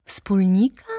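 astonished lawyer exclaims; exclaiming. Acted. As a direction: shout back the word in disbelief. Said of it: "zawołał adwokat".

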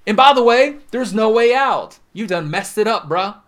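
loud, high taunting accuser; accusing devil. Acted. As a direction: hammer them with shame, shouting. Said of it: "the devil himself speaking".

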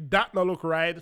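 Jamaican patois repeat with the stress on "that"; "that" hit first in patois; repeated patois protest, "that" stressed. Retold or imitated.

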